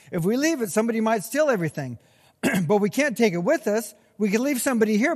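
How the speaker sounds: fast, worried inner monologue, pitch climbing; anxious rush of thoughts. Retold or imitated. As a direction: spill out the panic one worry after another. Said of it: "exactly what went through my mind".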